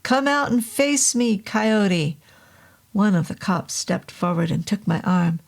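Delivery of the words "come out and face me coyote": shouted challenge. Acted. Challenging the demon aloud.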